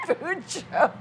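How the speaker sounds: giggling through the words; laughing. Real, not acted. Laughs mid-line.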